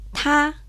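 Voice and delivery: "ta" in a high level tone; Mandarin tone. Shown as a demonstration. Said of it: "Él y ella se dice".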